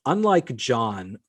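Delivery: drawn-out, deliberate email reading; slow mocking readback. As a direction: read it out very slowly. Reading her email aloud mockingly.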